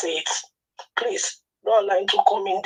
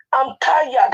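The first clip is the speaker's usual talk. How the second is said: exasperated; 5 semitones higher, 4 dB louder than usual. Real, not acted. Upset caller repeating herself.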